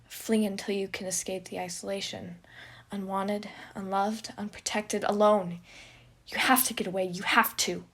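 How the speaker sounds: loud, pressing commands; the panic voice hammers at Janice, loud and urgent. Acted. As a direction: drive him to run. Panicked voice urging him.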